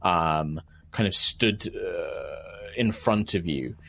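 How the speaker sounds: slow, measured fantasy narration; unhurried storyteller pacing; game master's scene setting. Acted. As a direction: set the scene slowly, pausing between phrases.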